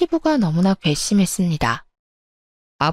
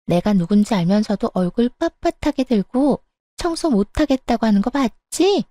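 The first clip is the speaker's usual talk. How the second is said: whining mistress. Acted. Mistress tattling to father-in-law, whiny. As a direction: complain like a spoiled tattler.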